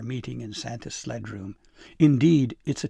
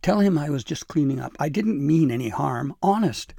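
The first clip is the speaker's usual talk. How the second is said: loud, higher-pitched pleading; begging; 4 semitones higher, 7 dB louder than usual. A narrator's reading. Cowering elf begs her to speak for him, pleading. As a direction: protest your innocence, begging. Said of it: "he begged".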